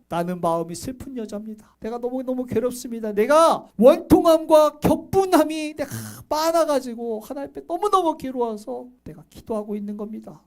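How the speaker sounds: acted sorrowful plea, rising then sinking; mild pleading distress; Hannah's lament. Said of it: "이렇게 하소연을 해요".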